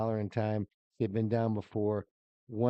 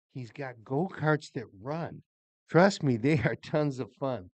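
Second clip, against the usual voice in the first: poem reading. Acted. Reads birthday poem aloud.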